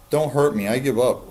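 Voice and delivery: high, pleading little voice; peeping plea. Acted. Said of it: "Roy peeped convincingly".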